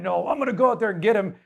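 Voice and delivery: fast, eager rush; a hint of hyped-up charge; David all excited, rushing off, lightly acted; mock excited. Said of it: "David gets all excited".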